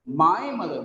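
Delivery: "My" emphasized, falling afterwards; stress on MY. Shown as a demonstration. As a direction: make "My" stand out. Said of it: "not somebody's".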